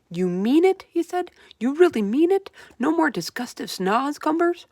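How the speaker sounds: high, loud and thrilled; the BFG can hardly believe his luck; excited giant. Acted.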